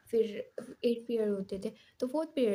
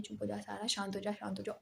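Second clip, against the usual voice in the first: hushed calming; 7 dB quieter than usual. Retold or imitated. Friend calming her down.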